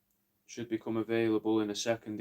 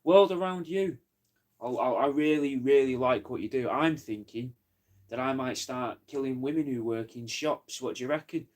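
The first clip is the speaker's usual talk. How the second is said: mock quote of a friend. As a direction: start raised and punchy, settle into casual chat. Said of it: "he doesn't speak like this, but I can't do his accent".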